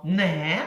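не with a hard н and open е. Shown as a demonstration. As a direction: say не firmly, hard н. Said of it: "Твердо ми скажемо".

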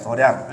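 도량 with a soft r opening the second syllable; temple reading. Shown as a demonstration. Teacher gives class the temple term, reading 도량 with an r. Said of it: "항상 도량으로 읽어야".

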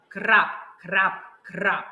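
crisp little drip sounds; rain drip sounds. Shown as a demonstration. Teacher showing children how rain drips. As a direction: tap out raindrops with the voice. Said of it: "Давайте покажемо".

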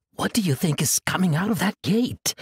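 put-on like a child eager for the surprise; excited wonder. Atenos asking about the gate, excited wonder. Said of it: "said with excited wonder".

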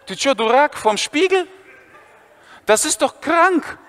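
high outraged schoolboy; shocked Viktor. Retold or imitated. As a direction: squeal it out in disbelief. Viktor disgusted at mirror.

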